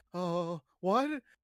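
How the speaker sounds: sudden panicky exclamation, high and loud. Voicing Norm left alone as the others fall in the water: Norm panicking. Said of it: "kinda panicking".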